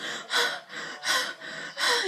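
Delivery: high breath, no voice; imitated high gasping sigh; mock sobbing sigh. Acts out Kandi's hurt.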